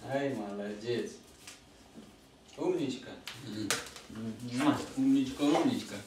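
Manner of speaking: soft praise for a pet; talking to a dog. Real, not acted. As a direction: coo gently at the dog. (ласково хвалит собаку)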